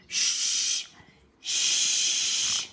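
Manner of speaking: breathy hushing shh; a sharp whispered shh; shushing. A narrator's reading. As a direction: hush the noisy neighbours. Animals hushing the noisy party.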